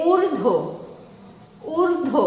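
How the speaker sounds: ঊর্ধ্ব said clearly as urdho; ঊর্ধ্ব উচ্চারণ করে দেখানো; pronunciation demo. Shown as a demonstration. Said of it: "কি লিখতে হবে উচ্চারণে".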